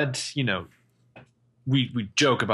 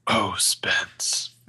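whispered, tender. Acted. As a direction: breathe it gently to her. Tender reply to tearful confession.

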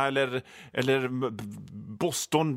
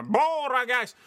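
high-pitched imitated holler; mock football yell; shouting; 8 semitones higher, slower than usual. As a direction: call it out on a sustained high note. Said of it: "rediga människor som ropade".

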